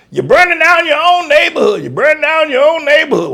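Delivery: high, loud mock scold; hammed-up preachy mock accusation; mocking critics. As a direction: lampoon the scolding hillbilly critics. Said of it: "the hillbilly boys down there".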